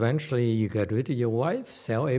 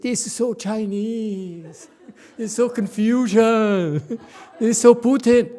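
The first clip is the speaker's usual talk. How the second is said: mock fault-finding, higher and slow, laughing; judgmental person; 8 semitones higher, 3 dB louder, slower than usual. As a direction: ham up a petty critic with a laugh. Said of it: "Can't you embrace it?".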